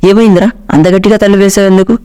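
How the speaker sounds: mock-startled mother asking why the door slammed; startled mom. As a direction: mom jolted awake, asking quickly. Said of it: "అమ్మ ఒక్కసారిగా ఉలిక్కిపడి".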